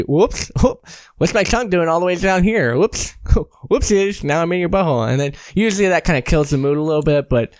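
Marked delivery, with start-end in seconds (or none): 0.0-5.1 mock innocent.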